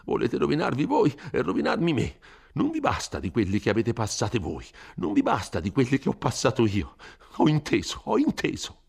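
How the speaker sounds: huffy resignation with a sigh; mildly exasperated priest; peevish, sighing. A narrator's reading. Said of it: "sospirando stizzosamente".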